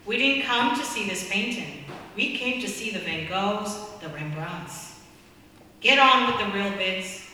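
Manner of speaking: impatient bidder barking at the auctioneer; angry shout. Acted. Bidder at the auction shouts at the auctioneer, mildly angry. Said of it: "Another voice shouted angrily".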